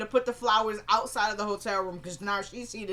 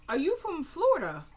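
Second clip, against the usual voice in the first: catty sweet question; 8 semitones higher than usual. Retold or imitated.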